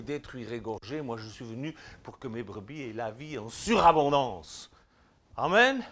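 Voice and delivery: rising fervent exhortation; preaching. Acted. Preacher exhorting listeners to cross over into the light. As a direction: drive the call to action home.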